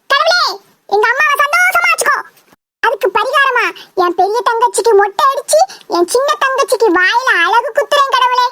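hammed-up earnest prayer to God; mock prayer. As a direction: plead with God as a devout son. Son prays aloud again.

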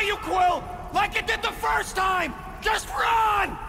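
drawn-out warning cry; urgent warning. Acted. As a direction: yell at a friend to get away. Warns friend of danger.

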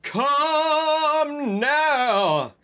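high, drawn-out mock shout; angry command. Professors order the students out, high angry mock command. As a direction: call it out long and high. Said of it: "started to shoot at us angrily".

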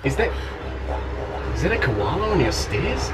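put-on Australian accent. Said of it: "quite good at Australian accents".

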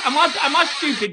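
quick stammered repeat. Real, not acted. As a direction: rush the doubled 'Am I, am I stupid?'. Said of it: "Be honest".

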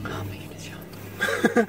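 chewing between words; muffled food-filled speech; mouth full. Real, not acted. Seen 1: Woman holds a wrap after a bite; lips work between words.

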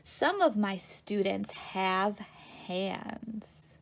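slow, measured picture-book reading; reading to children. A narrator's reading. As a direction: read it slowly for small listeners.

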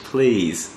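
'please' with a falling tune; British falling please. Acted. Learner repeating the British version, 'please' falling. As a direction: copy the English 'please', dropping at the end. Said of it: "英国人是please".

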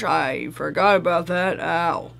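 quiet, sore-throated voice. Real, not acted. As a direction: speak as if the throat hurts. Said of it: "My throat is sore".

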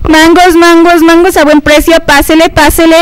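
hyped fairground barker. Acted. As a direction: hawk mangoes to passersby. Market vendor calling out wares.

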